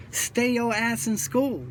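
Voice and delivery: slow, deliberate, every word weighted; emphatic plea. Real, not acted. Ex-con urging kids to stay in school, slow and emphatic. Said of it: "I can't emphasize that enough".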